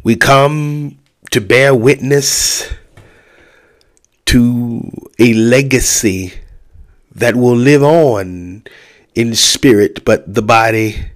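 slow, solemn funeral address; faltering tender eulogy. Acted. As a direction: deliver it like a pastor at a memorial.

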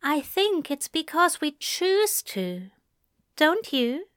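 gentle, loving reply; warm. A narrator's reading. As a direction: soften into a tender question. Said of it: "voice warm".

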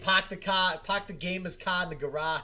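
loud, hammed-up Boston accent. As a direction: belt it out in thick Boston accent. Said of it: "that's the Boston accent in you".

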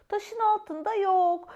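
little squirrel voice. Acted. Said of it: "dedi küçük sincap".

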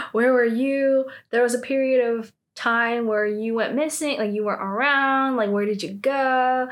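retold pointed questioning; suspicious accusing. Club members suspecting each other, mock accusing. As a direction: imitate people firing accusations at each other. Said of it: "like, suspecting each other".

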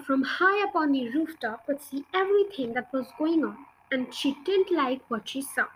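put-on reading a children's book aloud; story narration. A narrator's reading. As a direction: tell it like a bedtime story. Reads a children's book chapter.

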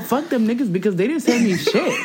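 high-pitched rant with laughter; laughing outrage. Real, not acted. Friend griping about getting no money, laughing outrage. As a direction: complain high through real laughter.

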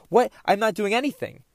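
mildly exasperated retold denial; getting frustrated. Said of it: "getting frustrated 'cause I'm like".

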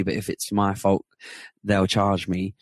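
ordinary talk

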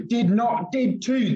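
put-on high-pitched children's squabble; read-aloud playground argument at normal volume; mock shouting. A narrator's reading. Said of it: "after all that shouting".

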